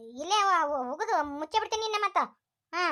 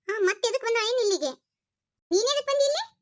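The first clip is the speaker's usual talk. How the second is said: angry challenge; 4 semitones higher than usual. Acted. Rashmi confronts unwanted ex-friend.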